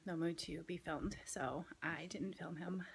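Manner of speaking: soft unvoiced whisper, slowing down. Real, not acted. Mom whispering to viewers about her sore son.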